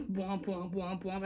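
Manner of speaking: mocking womp womp. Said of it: "They're like".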